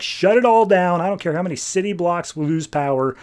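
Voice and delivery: frantic command, only half shouted; retold urgent yelling. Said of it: "He's yelling at Alfred".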